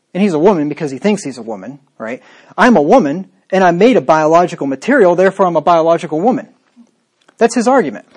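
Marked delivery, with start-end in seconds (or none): 2.6-6.5 a lightly put-on voice, a touch louder, faster at the end; mocking quote. Preacher mocking the show guest's reasoning in a lightly put-on voice. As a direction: parody the man's argument with mild scorn. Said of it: "his reasoning goes like this".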